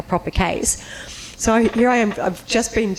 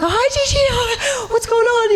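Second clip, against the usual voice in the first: playing it cool. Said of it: "trying to play it cool".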